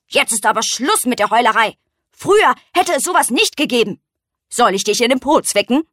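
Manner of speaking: ein Hauch von strengem altem Käfer; leicht gespielte Strenge, etwas lauter. Acted. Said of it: "sagte streng". (der alte Hirschkäfer schimpft mit der Eule, nur leicht streng)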